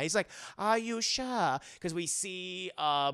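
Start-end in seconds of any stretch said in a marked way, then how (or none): 0.6-1.6 put-on slow, higher German-accented question; lightly mocked German doctor, drawn out; Hugo Strange. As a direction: probe slowly in a comic German accent. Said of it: "a very thick German accent".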